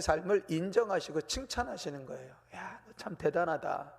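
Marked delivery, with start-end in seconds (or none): 2.5-3.9 praising. Retold or imitated. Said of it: "칭찬하시는 겁니다".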